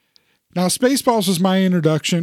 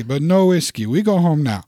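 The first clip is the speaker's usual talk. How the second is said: gruff cowboy impression. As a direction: play a tough old Western hero. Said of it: "Nobody has any idea what we're talking about".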